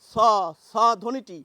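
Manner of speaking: dental স as a crisp s; sound demo. Shown as a demonstration. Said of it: "এই যে বলছি না".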